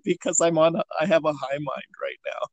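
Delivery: high and rambling; drifting stoned talk with a laugh. Real, not acted. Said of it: "So I'm really high right now".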